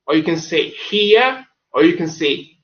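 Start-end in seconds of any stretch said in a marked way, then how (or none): 0.7-1.5 Cockney greeting. Shown as a demonstration. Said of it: "you should try and imitate accent".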